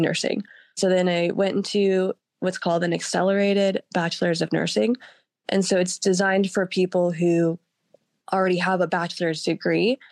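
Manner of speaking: hoarse voice from a cold; sick voice. Real, not acted. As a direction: talk through a sore throat. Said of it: "I've been sick all week".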